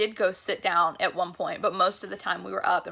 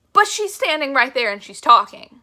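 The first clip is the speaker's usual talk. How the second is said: high, loud insistence; overwhelmed awe; 5 semitones higher, 9 dB louder than usual. Retold or imitated. Fan insisting on what moved her, overwhelmed. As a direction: push it out in raised-voice amazement. Reliving awe at the singer's speech.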